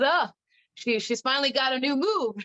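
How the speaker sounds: funny, grudging, surprised commentator voice. Retelling a commentator's remark about a new move: imitating Joe. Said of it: "Joe talks, though, is just really funny".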